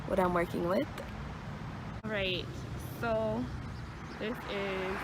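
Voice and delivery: talking with retainers in; speech around a retainer; wearing a retainer. Real, not acted. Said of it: "I have my retainers in".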